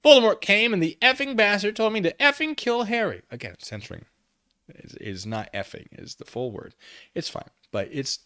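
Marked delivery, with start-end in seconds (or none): 0.0-3.2 agitated outburst. A narrator's reading. Ebony retells Voldemort's order.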